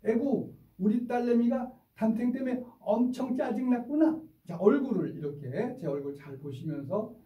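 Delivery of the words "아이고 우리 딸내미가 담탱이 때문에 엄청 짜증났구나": high, sing-song sympathetic coo; rising tender 짜증났구나 like a mother comforting; mirroring empathy. Shown as a demonstration. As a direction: mirror the child's upset face and soothe her. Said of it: "우리 같이 실습해 보실까요".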